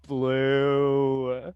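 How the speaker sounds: strained thought. Acted. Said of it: "in his mind, you can hear".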